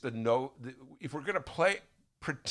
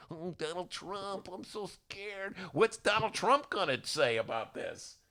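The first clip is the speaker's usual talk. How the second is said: mock fear; 5 semitones higher, slower than usual. Mocking timid Democrats.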